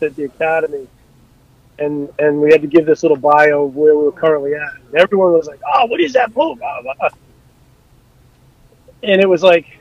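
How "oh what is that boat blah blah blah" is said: higher-pitched imitation of curious classmates; mock gushing classmates. Classmates at the academy asking about the new boat, mock gushing. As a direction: parody their impressed chatter in a raised pitch.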